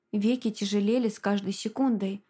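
usual speaking voice

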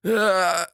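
short high cry of pain; high acted yell. A narrator's reading. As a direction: yelp as a dart hits. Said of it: "заорал Седой".

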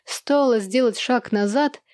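ordinary delivery, nothing marked

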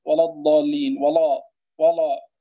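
ولا with a thick, dark lam, the wrong way; heavy lam. Shown as a demonstration. Teacher demos the mistaken heavy ولا. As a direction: fatten the lam in ولا الضالين. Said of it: "فلا نقول".

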